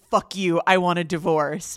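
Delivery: a loud, mock grovelly snarl of fuck you, I want a divorce; hammed-up divorce demand, wrong way round; imitating a raw, grovelly outburst. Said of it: "grovelly voice".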